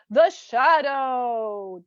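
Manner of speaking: slow, drawn-out radio-show title; dramatic title reveal. Pretend. Host unveiling the show's name, dramatically drawn out.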